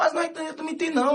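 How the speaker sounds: high-pitched, heated, worked-up ranting. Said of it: "Eita, como ele tá".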